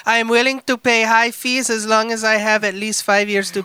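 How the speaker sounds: put-on wobbly European accent reading; attempted European accent. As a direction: read it in a vague European accent. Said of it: "What accent is that?".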